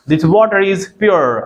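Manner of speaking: slow, "pure" as pyoo-er; American-style pronunciation. Shown as a demonstration. Teacher plays an American talking to you, American-style pronunciation. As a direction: end slowly on a gliding "pure". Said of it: "American आपसे बोले".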